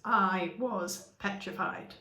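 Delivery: slow, weighty I was petrified; emphasis; dramatic weight. Shown as a demonstration. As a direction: land each word slowly. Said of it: "No, it's".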